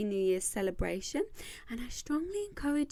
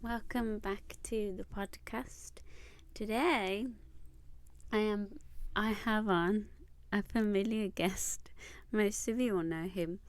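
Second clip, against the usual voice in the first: lisping through clear aligners; slight lisp on the s sounds; lisp from Invisalign. Real, not acted. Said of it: "please excuse my lisp as well".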